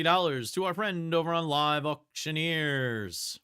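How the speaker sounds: brisk auction calling, bids rising; auctioneer call. Acted.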